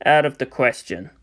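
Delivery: low, soft flat refusal; cold refusal. Acted. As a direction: dismiss it coldly.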